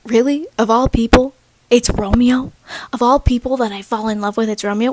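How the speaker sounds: mildly incredulous Juliet paraphrase; exasperated disbelief. Acted. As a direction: question it like an unwelcome discovery. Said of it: "She's being like".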